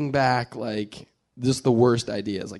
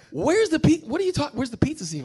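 mock-incredulous, pitched well up; retold bafflement. Executives puzzled by a pizza slice in a photo, mock-incredulous. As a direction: act out baffled disbelief in a higher voice.

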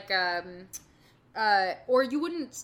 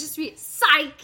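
higher, louder, slow mock French; 7 semitones higher, 12 dB louder, slower than usual. Joking franglais.

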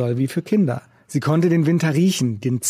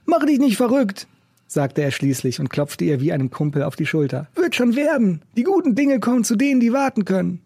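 raised, rough busker voice; gruff old street musician; 7 semitones higher than usual. A narrator's reading. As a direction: play the cynical old busker. Macke comforting Fiona.

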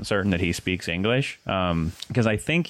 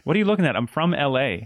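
indignant LA guy; 5 semitones higher than usual. Retold or imitated. Ticket booth guy acting offended at the tourists, mock indignant. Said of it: "And he was like".

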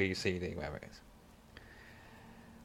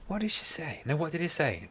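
mock high voice; 6 semitones higher, 4 dB quieter than usual. Retelling stranger's remark, high voice.

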